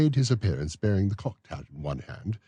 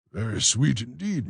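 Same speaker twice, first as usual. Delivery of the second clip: tender; 7 semitones higher than usual. Acted. Beadle to the matron over tea, slow and tender. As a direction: answer gently, with a lingering tender tone. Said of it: "if ever a beadle looked tender".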